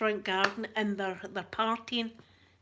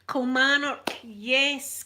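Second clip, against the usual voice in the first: louder, higher burst on Kilmarnock as it comes back; sudden recall; 4 semitones higher, 6 dB louder, much slower than usual. Real, not acted. Vlogger remembering the town's name, blurting Kilmarnock louder and higher.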